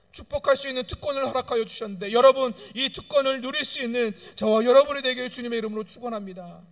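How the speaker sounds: loud, high climactic blessing; preacher at full force; rising preaching. Acted. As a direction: build to the blessing.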